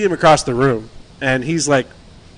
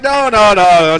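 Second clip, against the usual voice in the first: higher and louder repeated no; stopping a drunk friend; firm refusal; 5 semitones higher, 4 dB louder than usual. Retold or imitated. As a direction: shut him down, insistent. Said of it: "I'm like".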